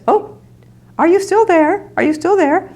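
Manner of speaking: high, flustered, rushing voice; flustered old lady. Retold or imitated. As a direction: imitate a frazzled elderly woman hurrying off the phone. Kitty picks up receiver.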